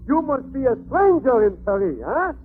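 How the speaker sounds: French waiter. Pretend. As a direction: play a smooth Paris head waiter with a mild French accent. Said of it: "I am the head waiter".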